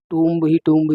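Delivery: टूम्ब with the b sounded; wrong pronunciation. Shown as a demonstration. Teacher quoting a common mistake, टूम्ब with sounded b. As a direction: close टूम्ब on an audible b. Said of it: "टूम्ब नहीं".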